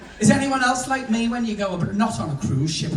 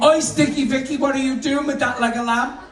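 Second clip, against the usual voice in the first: lightly voiced security guard, higher pitch; 4 semitones higher than usual. Guard challenges Sticky Vicky over the lamb, security guard voice. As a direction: call out like a suspicious security guard. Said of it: "you can hear the security guard saying".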